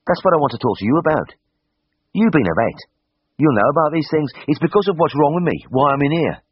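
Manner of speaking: broad Birmingham patient leaning in to confide; Birmingham accent. A narrator's reading.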